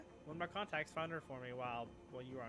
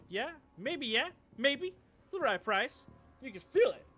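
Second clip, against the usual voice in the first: higher, louder jittery pitch; nervous hustler; 9 semitones higher, 9 dB louder than usual. Acted. Nervous clocker hinting at snuff chips, higher and jittery. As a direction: push the sale with nervous energy.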